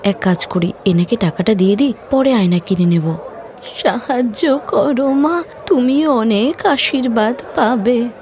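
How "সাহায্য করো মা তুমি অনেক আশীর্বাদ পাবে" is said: put-on a slow, pleading old woman's plea; lightly voiced old woman begging; old beggar woman. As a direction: ask for alms slowly, like a frail grandmother.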